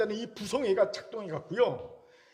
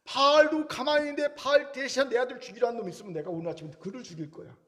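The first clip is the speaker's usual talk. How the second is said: father defending his son; 3 semitones higher than usual. Retold or imitated. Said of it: "아들의 대변자".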